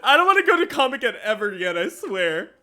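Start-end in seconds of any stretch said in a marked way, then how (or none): none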